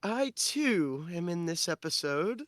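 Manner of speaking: drawn-out put-on character voice; Tarnath. Tarnath's voice announces itself to Dusty, drawn out and rising. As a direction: stretch it out with a rising end. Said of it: "You hear Tarnath's voice go".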